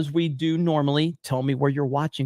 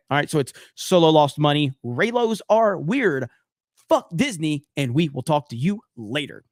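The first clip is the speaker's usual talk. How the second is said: proper outro. Shown as a demonstration. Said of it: "Let me give it to you the right way".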